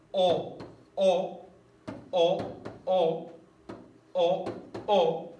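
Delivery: each "o" sung out separately and loud; teacher marking the rhyme vowels; stressed rhyme vowel. Shown as a demonstration. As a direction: punch every rhyming "o" on its own. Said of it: "en este caso".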